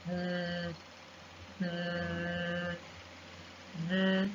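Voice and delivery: "mm" as a soft buzzing th, tongue on teeth; th sound. Shown as a demonstration. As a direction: hum a voiced th between the teeth. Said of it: "this sound is voiced".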